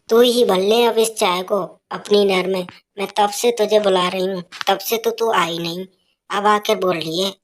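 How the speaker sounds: put-on a scolding old woman calling for her tea; mother-in-law shouting for her tea, scolding; nagging mother-in-law. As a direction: bark for the daughter-in-law.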